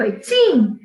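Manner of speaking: put-on eighteen said like a sneeze, ei-teen. Shown as a demonstration. Teacher to students, recalling the sneeze trick for eighteen. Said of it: "Lembra do espirro?".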